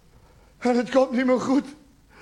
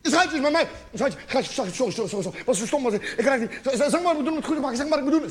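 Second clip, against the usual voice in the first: frantic, stammered, repeated apologies; panicked pleading; 2 semitones higher, faster than usual. Acted. Boyfriend pouncing when she gets home, panicky pleading. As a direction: beg desperately, tripping over the words. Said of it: "Je raakt helemaal in paniek".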